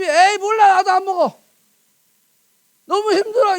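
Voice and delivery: high, loud grumbling; hammed-up exasperated whine; mock huffy refusal. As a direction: play a fed-up quitter complaining. Acts the mouth sulking, giving up.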